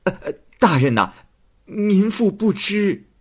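high, stammering village woman; nervous woman. Acted. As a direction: hem and haw, then squeak it out. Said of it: "王氏回答说". (王氏支支吾吾地回答)

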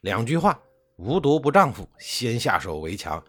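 a plotting uncle urging his nephew to strike first, fierce and loud; vicious. Acted. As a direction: spit out the plot like a ruthless schemer. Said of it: "公子辉恶狠狠地说".

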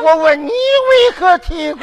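带哭腔的喊问. Acted. 父女对问啼哭.

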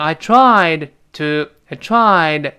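"tried" drawn out, its d held unreleased; lost plosion. Shown as a demonstration. Teacher shows the dropped plosive, slow "tried" with silent d. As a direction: stop the d of "tried" before "to" without releasing it. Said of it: "在这儿就失去爆破了".

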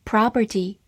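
"property" with open O and curled R; American pronunciation. Shown as a demonstration. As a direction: say "property" with a wide "ah" and rhotic R. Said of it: "字母O口型比较大，R有一个卷舌". (美式发音，"property"中O口型大，R卷舌)

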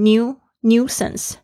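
"new, nuisance" with a British yoo sound, nyoo-sance; British "nuisance", glide before the u; British pronunciation. Shown as a demonstration. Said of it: "英式发音会发成new".

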